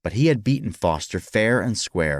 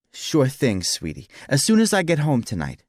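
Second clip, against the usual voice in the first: put-on higher-pitched talk to a child; indulgent father; 7 semitones higher than usual. A narrator's reading. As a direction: reassure a little daughter. Father answers his little daughter.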